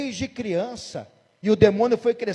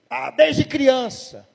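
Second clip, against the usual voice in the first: drawn-out, louder demon reply; 4 semitones higher, 5 dB louder, much slower than usual. Retold or imitated. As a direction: drag the words out like a mocking spirit. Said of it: "E o demônio". (voz de demônio arrastada e mais alta)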